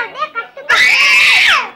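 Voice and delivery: loud, giggling dare; laughing shout. Real, not acted. Child dares uncle to shout.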